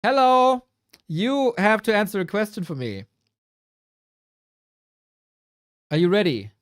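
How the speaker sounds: loud, bright call to the AI; calling out loudly. Real, not acted. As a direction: project it like calling someone over. Calling out to AI co-caster.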